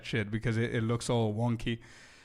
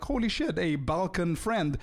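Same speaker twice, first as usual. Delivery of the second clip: higher, excited mock gasp at a fellow Balkan; excited surprise; 5 semitones higher, slower than usual. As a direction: retell the delight of spotting a Balkan friend. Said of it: "and I was like".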